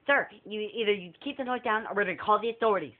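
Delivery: a fast, stern warning in a lightly put-on official voice; rushed clerk threat. Prank caller threatening the guest with the authorities, fast and stern. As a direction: rattle off the threat quickly.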